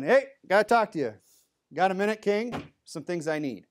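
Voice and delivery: casual, bold voice barging in on a king; brash intruder. Pretend. A commoner bursting in on the king, brash and loud. Barging into a king's throne room.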